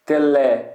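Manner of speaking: "Tele" with the second syllable hit; stress on "le". Shown as a demonstration. Teacher showing a strong syllable, stressed "le" in "Tele". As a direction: lean firmly on "le" in "Tele". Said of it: "porque é uma sílaba forte".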